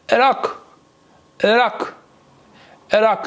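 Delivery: «عراق» starting on Turkish ı, not "i"; Turkish ırak pronunciation. Shown as a demonstration. Teacher drills students on the Turkish word, "ı-rak". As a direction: repeat «عراق» as "ı-rak", short dull first vowel. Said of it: "عراق نیست ها".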